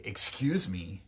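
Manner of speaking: slow, drawn-out, impolite delivery; polite words in a confrontational tone; very rude. Shown as a demonstration. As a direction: stretch it out rudely at the other person. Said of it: "but in a very rude way".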